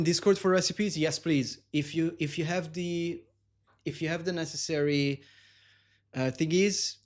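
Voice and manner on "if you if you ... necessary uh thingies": losing the words mid-sentence; halting, searching for words; brain freeze. Real, not acted. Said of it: "my brain is freezing so hard".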